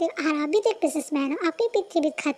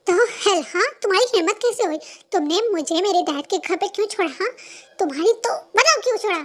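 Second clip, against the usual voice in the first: angry shouting; 3 semitones higher, 4 dB louder than usual. Acted. Girlfriend shouting at Jungkook for leaving her at dad's, angry shout. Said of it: "तुम इतना ज़्यादा चिल्ला क्यों रहे हो".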